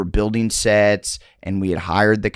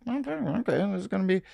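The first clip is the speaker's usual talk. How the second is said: excited; 11 semitones higher, 9 dB quieter, faster than usual. Retold or imitated. Excited retold reaction.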